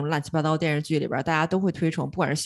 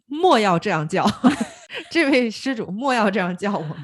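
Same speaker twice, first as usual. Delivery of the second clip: mock monk; 3 semitones higher than usual. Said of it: "那个本能反应就是".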